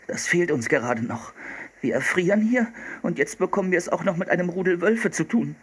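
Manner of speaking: grumble, then rise into high-pitched protest; fed-up boy Philipp. Acted. Freezing brother facing wolves, high aggrieved complaint.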